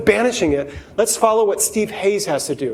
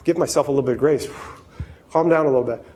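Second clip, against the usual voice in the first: calming self-talk; 4 semitones lower, faster than usual. Retold or imitated. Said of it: "And you go".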